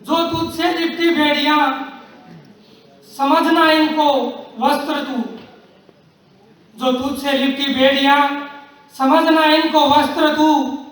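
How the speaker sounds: measured, declaimed verse with long pauses; rousing verse, falling away on the refrain; poem recitation. Acted. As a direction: recite it deliberately, letting each line's ending sink. Recites Harivansh Rai Bachchan poem.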